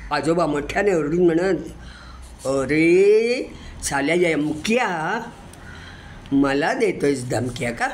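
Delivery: lively storytelling recital of a poem; poem recitation. Acted. Reciter tells a grandchild's poem about grandpa, lively recital. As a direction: tell it like a grandchild remembering grandpa.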